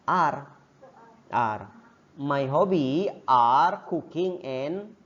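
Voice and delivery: are slowed and leaned on; stress on are. Shown as a demonstration. Teacher stressing are for plural hobbies. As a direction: hit are, slow and deliberate. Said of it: "kalau dua pakai are".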